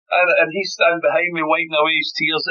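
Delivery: laughing through the story, voice lifted; can barely get it out for laughing; laughing while telling. Real, not acted. Telling the host about his crying teammate, laughing.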